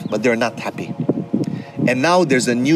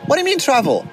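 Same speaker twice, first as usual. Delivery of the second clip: high, startled disbelief; shocked question; 13 semitones higher, faster than usual. Retold or imitated. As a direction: ask it as if you can't believe what you heard. Daughter reacts to mother's suggestion.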